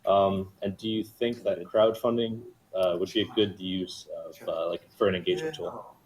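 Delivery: robotic, glitchy mic sound. Real, not acted. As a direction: sound like a robot over voice chat. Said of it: "You sound like a fucking robot".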